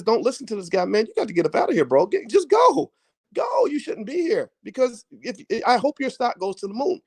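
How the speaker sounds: rising into a high mock shout; viewer yelling. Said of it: "Tino says".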